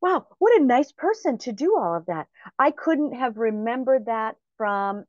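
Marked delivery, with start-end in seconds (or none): 0.0-2.3 higher-pitched retold wonder; excited admiration. Speaker marveling at the story just heard, retold excitement. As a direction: recall an excited, admiring thought. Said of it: "was I excited".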